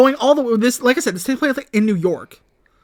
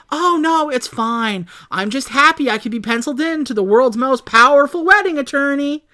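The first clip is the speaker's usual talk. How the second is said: passive aggressive; 6 semitones higher than usual. Retold or imitated. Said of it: "super passive aggressively".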